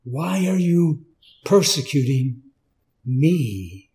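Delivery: me dropped low, you lifted; stress on me. Shown as a demonstration. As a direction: weigh the word me. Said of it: "Personal pronoun".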